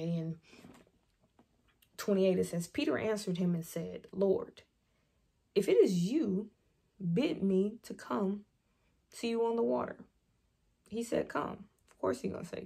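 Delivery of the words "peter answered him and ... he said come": measured Bible reading with pauses between phrases; lightly formal read-aloud voice; scripture reading. Acted.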